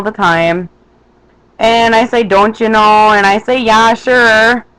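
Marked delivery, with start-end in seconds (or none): 2.2-3.1 Minnesotan accent. Shown as a demonstration. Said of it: "my Minnesotan accent". 3.6-4.7 Minnesotan accent. Shown as a demonstration. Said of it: "my Minnesotan accent".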